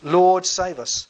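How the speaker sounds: slow, drawn-out mock plea; crying out. Believer in the storm calling on the Lord, slow plea. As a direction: stretch "Lord, save us" into an appeal. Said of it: "in the middle of the storm you cry out".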